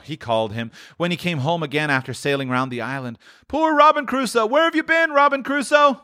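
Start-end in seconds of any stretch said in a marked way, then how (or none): 3.5-6.0 very high parrot cry; high-pitched imitation of a pet parrot; parrot impression. A narrator's reading. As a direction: squawk it like a talking parrot. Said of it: "It was the parrot".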